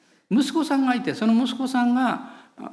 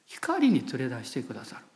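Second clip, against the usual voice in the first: 光に連れ出してくださる repeated quieter and lower; soft echo; 7 semitones lower, 6 dB quieter than usual. Acted. Preacher repeating the promise to the congregation, quietly. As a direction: let the phrase sink in, softly. Echoes the verse softly.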